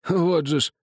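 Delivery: a hint of a worn-out old man; dying soldier. A narrator's reading. A dying man tells the narrator about the boy, lightly voiced. Same figure.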